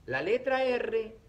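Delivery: letra R spoken slowly and weighted; emphatic teacher stress. Shown as a demonstration. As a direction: lean on la letra R. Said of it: "también suena duro".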